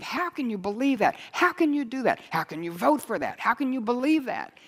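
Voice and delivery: rhetorical disbelief, swooping up and falling off; incredulous questioning. Retold or imitated. Preacher wondering at people who are fooled, incredulous. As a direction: press each question in mild exasperation.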